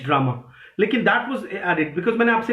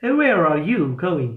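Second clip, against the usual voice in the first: slow, low English accent in measured beats; 4 semitones lower, much slower than usual. Shown as a demonstration. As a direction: say it like an Englishman, stretching the rhythm. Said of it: "अंग्रेज को ऐसे बोलना है". (अंग्रेज़ी लहजे में, धीमी लय से)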